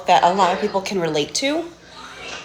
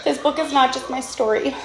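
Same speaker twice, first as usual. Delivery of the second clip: emotional reading; 5 semitones higher than usual. Real, not acted. Mother reads dedication to son.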